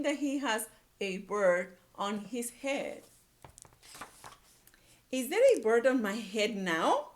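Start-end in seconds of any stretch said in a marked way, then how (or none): 5.1-7.1 anxious question. Acted. Gerald asking anxiously.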